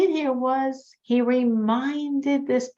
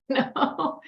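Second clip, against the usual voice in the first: ordinary talk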